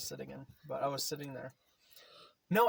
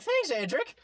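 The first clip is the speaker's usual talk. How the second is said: mock thanks; 12 semitones higher, 5 dB louder, slower than usual. Retold thanks, high put-on.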